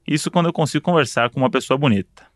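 usual speaking voice

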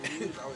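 short quiet cough; a real cough between lines; coughing fit. Real, not acted. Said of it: "I'm still coughing".

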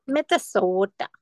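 slow Minnesota accent on Minnesota. Shown as a demonstration. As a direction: Minnesota drawn out with round Minnesota vowels. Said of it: "Don't you know?".

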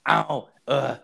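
high mock "ow" moans; imitating moaning. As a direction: mimic her fake moaning. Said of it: "she sounded like a lumberjack getting fucked".

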